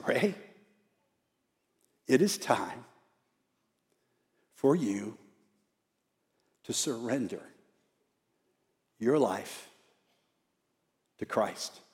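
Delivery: halting, soft words with long pauses; each phrase comes slowly and quietly, with effort; labored dying speech. Retold or imitated. Dying dad urging his old friend Ray, labored and halting. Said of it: "had a tough time talking towards the end".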